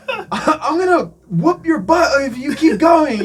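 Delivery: high, loud imitation of an irate man; mock shouted threat. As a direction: holler the threat like the heckler. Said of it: "he's just shouting".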